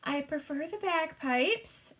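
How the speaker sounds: a shaken queen, dryly; Queen's reply. A narrator's reading. The Queen replying after the shock, dry. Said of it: "she said".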